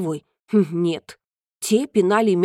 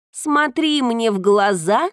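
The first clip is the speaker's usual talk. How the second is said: slow, slightly higher cat voice; a hint of a proud cat; lightly voiced cat; 3 semitones higher, slower than usual. Cat speaking.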